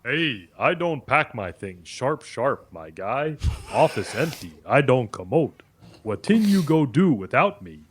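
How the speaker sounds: put-on West African pidgin English accent. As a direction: speak with a Nigerian accent. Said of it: "Stop doing the African accent".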